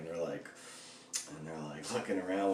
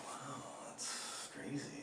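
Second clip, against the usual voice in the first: soft, slow hushed deadpan; imitating a roommate's slow mock amazement; 6 semitones higher, 11 dB quieter, much slower than usual. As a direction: drag it out, unimpressed.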